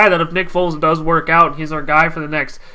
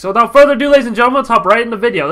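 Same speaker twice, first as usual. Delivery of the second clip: hype host; 5 semitones higher, 4 dB louder, much faster than usual. Real, not acted. Hyping the start of the video.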